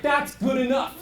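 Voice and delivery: mock resigned shout. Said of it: "And you're like".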